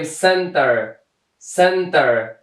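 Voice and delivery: "سنتر" begun with an S sound; teacher's demo of "سنتر" with initial S; soft C as S. Shown as a demonstration. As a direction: say "سنتر" as a model word, C pronounced like S. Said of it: "صدای سی را افاده کرده".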